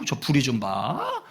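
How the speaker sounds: slow, drawn-out jeer; teasing, acted slowly; mock taunting. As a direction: stretch the words to needle. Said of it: "막 약 올리는 거예요".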